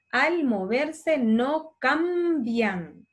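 fuertemente drawn out slowly, word by word; slow dictation. Shown as a demonstration. Teacher dictating slowly to children copying notes. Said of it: "Les puedo ir leyendo despacito".

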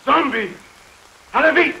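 high, loud panicked yelling to the horses; frantic shout. Acted. Driver yelling at the horses in terror, frantic shout. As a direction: scream at them to go, fast. Driver yells while fleeing zombies.

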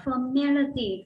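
formality stressed on the second syllable, slow; tutor's model word. Shown as a demonstration. Teacher models formality slowly for the class. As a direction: say formality clearly as for-MA-li-ty. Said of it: "nhấn vào âm hai nhé các em nhé".

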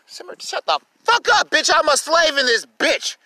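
sudden high angry yell at someone off camera; snapping at Summer. Real, not acted. Yelling at Summer to shut up, angry and high. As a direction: bark it at her across the room.

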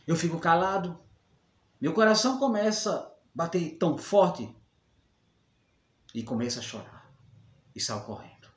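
heavy pauses, breaking into pained complaint then sinking; bullied victim. Acted. Bullied youngster confessing the constant teasing, acted hurt and despair. Dramatic monologue as bullied person.

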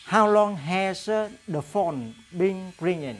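slow, clear English question; slow model question. Shown as a demonstration. Teacher reads the phone question slowly to the class. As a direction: read it slowly so students can follow. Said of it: "teacher reads example question".

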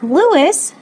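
high-pitched, falling name call; shocked cry. A narrator's reading. Shocked parents call their son, crying out. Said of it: "they cried".

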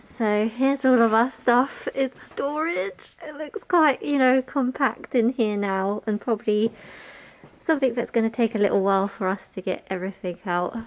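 talking through a face mask; muffled by a mask. Real, not acted. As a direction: speak muffled behind a mask. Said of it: "If I sound a bit muffled, I'm just wearing my mask".

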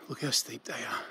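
winded, mid stair climb; breathless and quiet; out of breath. Real, not acted. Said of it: "I'm already puffed".

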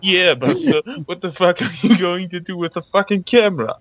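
mock demanding Draco. Voicing Draco demanding the camera.

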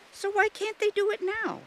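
very high, puzzled voice; questioning Jill. A narrator's reading. Jill asking why fish can't do it now, puzzled. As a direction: ask it pitched right up, wanting an answer.

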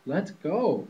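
lightly voiced quacking duck. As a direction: chirp it out like an eager duck. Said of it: "quacked Ducky Lucky".

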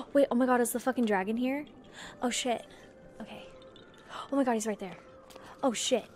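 fast startled gasp, rushed words; panicking gamer. Real, not acted. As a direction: caught off guard, hurrying. Dragon appears suddenly.

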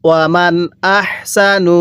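"ওয়ামান" with its n sounded distinctly before "আহসানু"; clear noon sakin. Shown as a demonstration. Teacher shows students the clear noon, "ওয়ামান" n kept distinct. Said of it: "আরেকবার পড়ুন".

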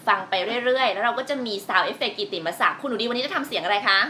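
ordinary delivery

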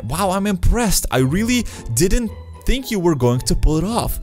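slightly teasing quest-giver voice; Etna's voice. Acted. NPC Etna greets player.

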